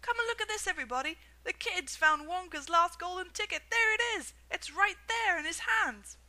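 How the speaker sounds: high, loud ecstatic shouting; excited screaming. A narrator's reading. Shopkeeper calling everybody to see the ticket, loud excited. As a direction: yell it to the whole street. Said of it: "screamed the shopkeeper".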